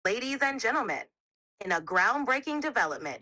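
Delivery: announcer voice with a bit of bravado; news broadcaster bravado. Shown as a demonstration. AI asked to act as a news broadcaster, announcing boldly. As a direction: present it like a news anchor. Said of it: "speak with bravado".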